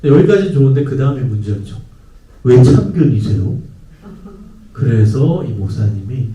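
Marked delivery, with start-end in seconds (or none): 2.4-3.6 put-on rude teen retort. Teen sassing pastor.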